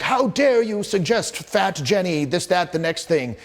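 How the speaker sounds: high, slow mock outrage; a hammed-up offended gasp of a line; mock outraged group. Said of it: "They're like".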